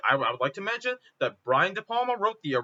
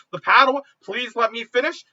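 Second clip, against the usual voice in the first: louder and higher over an interruption; insistent; 3 semitones higher, 5 dB louder than usual. Real, not acted. Speaker asking objectors to let him finish, insistent. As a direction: hold the floor, demanding to finish.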